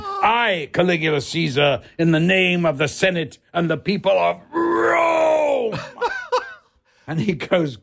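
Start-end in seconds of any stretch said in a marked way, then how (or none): 0.0-5.8 higher, booming emperor's proclamation; imperial proclamation. Retold or imitated. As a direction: declaim like Caligula to the Senate. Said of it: "as I'm saying".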